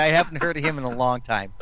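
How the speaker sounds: said through a smile; light amused smile in the voice; smiling. Real, not acted. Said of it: "I'm smiling when I say".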